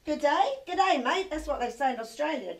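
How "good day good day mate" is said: lightly put-on Australian greeting; a touch of Aussie twang; Aussie accent. Shown as a demonstration. Host teaching a girl an Australian greeting, Aussie accent. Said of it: "the host's telling the Aussie accent now".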